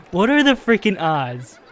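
laughing through the words in disbelief; amused, half-laughing exasperation. Real, not acted. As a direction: let a laugh spill into the question. Laughing at the repeat failure.

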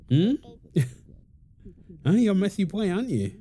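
put-on high playful baby-talk coo. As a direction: tease the baby sweetly in a high voice. Teasing baby about the mess.

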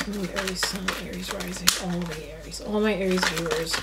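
quiet, murmured prayer to spirit guides; soft invocation. Real, not acted. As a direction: ask the guides softly, under your breath. Prays to universe and spirit guides.

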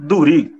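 ਧੂਰੀ with tone replacing the initial h; village pronunciation. Shown as a demonstration. Teacher showing how villagers say ਹਦੂਰੀ, tonal ਧੂਰੀ. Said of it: "ਉਚਾਰਨ ਸੁਰ 'ਚ ਤਬਦੀਲ".

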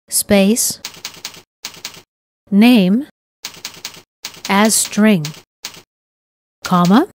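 reading code aloud word by word, with long pauses; dictating. Shown as a demonstration. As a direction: spell out each token slowly for typing. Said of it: "We'll type the following code".

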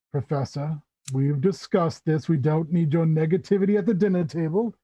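host gently reprimanding a dinner guest; understated, brisk reproof at the table; mild scolding. Acted. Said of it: "you see the Tabaxi scold the cat".

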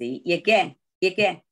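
again said slowly without the u, as ah-GAIN; silent u in again. Shown as a demonstration. Teacher shows the student, again without u. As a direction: model again, again, slow, no u sound. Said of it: "这个乌不需要念出来的".

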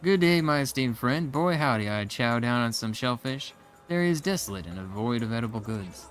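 mock posh translation. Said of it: "let me translate".

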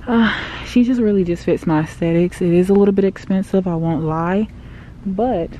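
talking through a face mask; muffled by mask. Real, not acted. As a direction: speak muffled behind a mask. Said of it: "I have my mask on".

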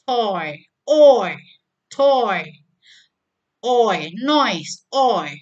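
loud, clear model words with oi; listen and repeat drill. Shown as a demonstration. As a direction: drill each oi word loudly. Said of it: "listen and repeat this example". (latihan ulang bunyi oi dengan keras)

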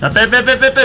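다급하게 외치는 빼 빼; 팀원에게 급히 소리치기; battle roar. Real, not acted. 후퇴하라고 다급히 외침. (급하게 외치는 후퇴 지시)

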